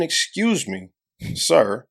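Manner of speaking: politely asking; a courteous excuse me, sir; calm polite ask; polite request. Shown as a demonstration. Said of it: "would have had me going".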